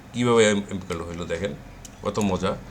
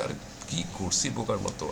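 amused self-mockery; 3 semitones lower, 10 dB quieter than usual. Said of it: "আর হাসি লাগে যে".

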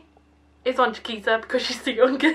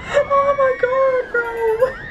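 higher, louder, slow stunned exclamation; 13 semitones higher, 5 dB louder, much slower than usual. Real, not acted. After the sudden drop, a slow, higher, louder oh my god. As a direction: drag it out in disbelief.

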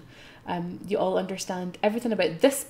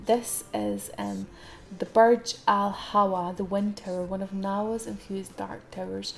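lore reading. Acted. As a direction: read the lore like a guidebook. Reads the game lore.

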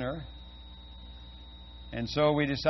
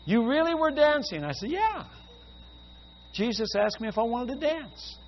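excited retelling; 11 semitones higher, 3 dB louder than usual. Retold or imitated. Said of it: "He says".

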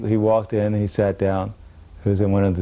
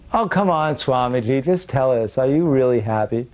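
higher, insistent coaxing; student pressing the swami again, higher and eager; eager pleading; 4 semitones higher than usual. Retold or imitated. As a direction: keep pushing him for an answer. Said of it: "And the boy goes".

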